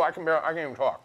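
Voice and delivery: talking through a mouthful; rushed words round a mouth full. Real, not acted. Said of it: "my mouth is full".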